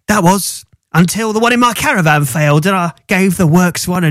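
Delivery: gangster voice. Acted. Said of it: "I agreed to do these in a, a gangster voice".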